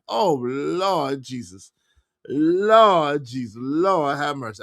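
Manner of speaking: slow, drawn-out Lord Jesus; host reacting to new accusations; exasperated. Real, not acted. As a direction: groan it out slowly. Reacting to messy claim.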